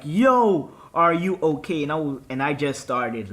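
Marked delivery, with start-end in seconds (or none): 0.0-1.8 high, loud retold cry of concern; alarmed shout. Cousin to friend who hit the wall, alarmed shout.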